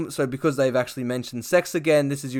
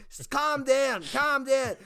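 KB calming them; 11 semitones higher, slower than usual. Retold or imitated. KB voiced in sketch.

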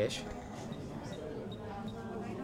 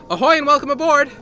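ship captain greeting; 9 semitones higher, 7 dB louder, faster than usual. Acted. Nautical greeter shtick.

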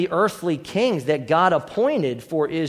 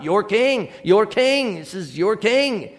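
mocking; 3 semitones higher than usual. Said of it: "He's just mocking them".

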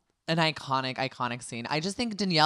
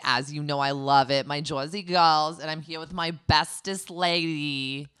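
hammed-up New Jersey accent for the podcast intro; a bad, put-on Jersey accent, host style; 2 semitones higher, 4 dB louder than usual. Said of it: "This is the worst Jersey accent I've ever heard".

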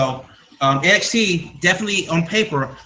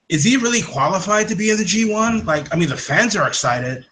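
a light mock Japanese accent, quoting Naito; hint of a Japanese accent, lightly done; 3 semitones higher than usual. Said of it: "this is my Japanese accent for you people".

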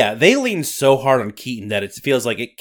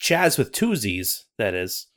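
put-on Scottish accent. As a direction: narrate like a Highland storyteller. Nessie narration.

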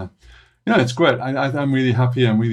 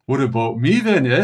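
put-on Canadian accent. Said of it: "That's my Canadian impression".

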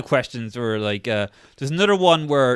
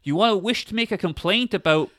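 mock office woman; 4 semitones higher than usual. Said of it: "the woman working next to him".

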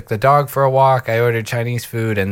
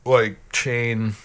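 words pushed out on a burp. Real, not acted. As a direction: talk through a burp. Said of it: "I'm talking through burps".

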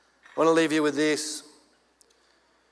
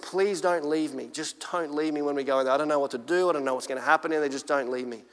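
scared plea; 4 semitones lower, 3 dB quieter than usual. Retold or imitated. Young man begging his mate at the church door, softly afraid. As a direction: beg him quietly not to leave you. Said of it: "I was so scared".

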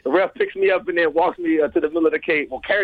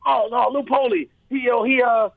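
lightly voiced slick promoter, a bit higher; grimy promoter voice; 6 semitones higher than usual. Promoter naming the main event, grimy promoter voice. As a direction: brush it off like a shady promoter. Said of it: "this dude this voice".

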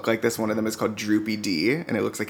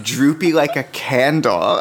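put-on child's answer; 3 semitones higher, 5 dB louder, slower than usual. Kid voiced, slowed.

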